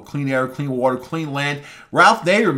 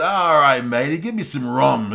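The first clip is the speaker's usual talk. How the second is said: pirate talk. Pretend. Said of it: "Talk Like a Pirate Day".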